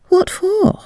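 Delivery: put-on a curious young lady piping up; high, hushed girlish query; lady's voice. A narrator's reading. Lady asks captain.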